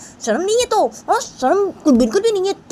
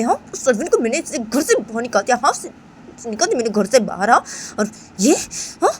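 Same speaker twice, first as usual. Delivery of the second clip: angry accusation; 6 semitones higher than usual. Acted. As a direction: tear into Bani in front of everyone. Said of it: "तो रायमा से बोलती है". (ऊँची, गुस्सैल इल्ज़ाम लगाती आवाज़)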